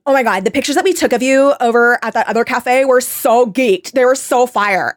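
mock over-the-top enthusiasm; annoying influencer. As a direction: gush like someone auditioning a personality. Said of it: "everything she's saying is so fucking annoying".

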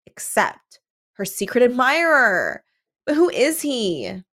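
lightly melodramatic, slow teaser read; hammed-up cliffhanger question; teaser blurb. Reading a melodramatic plot blurb aloud.

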